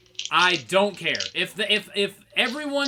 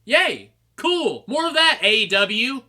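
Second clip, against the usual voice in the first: higher, louder mock-excited cheer; sarcastic cheer; 4 semitones higher, 4 dB louder, slower than usual. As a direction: fake enthusiasm, dripping sarcasm. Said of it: "And I was like".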